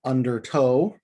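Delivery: Undertow with the beat on -tow; da-da-DUM on Undertow; anapest stress. Shown as a demonstration. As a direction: land the stress on the end of Undertow. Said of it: "being a few examples of words that in and of themselves are anapests".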